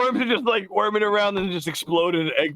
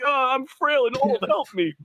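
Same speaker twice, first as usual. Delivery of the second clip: lightly put-on feeble old man, pitched up at first; a hint of a helpless old man act; frail old man; 5 semitones higher than usual. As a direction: plead like a feigned frail elder. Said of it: "He just got really old all of a sudden".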